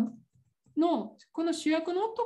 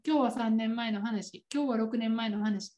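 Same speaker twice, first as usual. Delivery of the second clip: episode title read; 5 semitones lower than usual. Shown as a demonstration.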